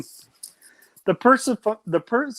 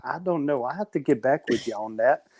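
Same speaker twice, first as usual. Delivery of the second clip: lightly put-on hood-accent Jesus. Puppet Jesus answering a fan who wants a visit, hood accent. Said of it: "he's from the hood now".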